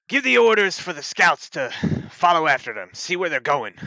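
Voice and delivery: loud, high, forceful sheriff's command; issuing urgent orders to the town's scouts; sheriff giving orders. Acted. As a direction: call out orders as a determined sheriff. Game master voices the sheriff.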